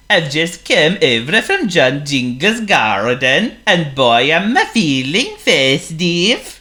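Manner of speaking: high, jolly snowman voice, slowing with delight; a snowman beaming about the festive season; cheery snowman. Acted. Snowman tells his penguin friend he feels festive, jolly and high.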